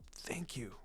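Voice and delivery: hushed thanks into a jacket; whispered. A narrator's reading. Boy hugging his teacher, whispering his thanks. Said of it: "the blonde whispered".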